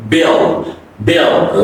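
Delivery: "bill" ending in a dark L. Shown as a demonstration. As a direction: let "bill" glide back into a dark L. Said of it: "it's a dark".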